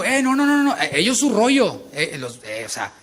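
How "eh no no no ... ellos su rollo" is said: mock denial. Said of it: "Él no dijo".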